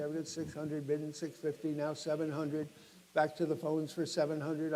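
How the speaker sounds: brisk auctioneer calling out bids. Acted. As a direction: rattle off the bids to the room.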